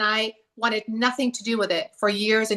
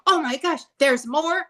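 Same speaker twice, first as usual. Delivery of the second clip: higher-pitched, mildly acted thrill; 6 semitones higher than usual. Spiritual self finding another summit, acting thrilled. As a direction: play delighted amazement, pitched up. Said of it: "just thrilled that".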